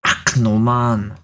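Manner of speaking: a light put-on Scottish accent; a playful hint of Scottish. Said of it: "I'm going all Scottish".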